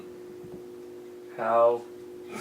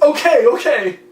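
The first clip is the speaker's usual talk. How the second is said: giving in; 8 semitones higher, 5 dB louder than usual. Retold or imitated. Friend giving in, quoted.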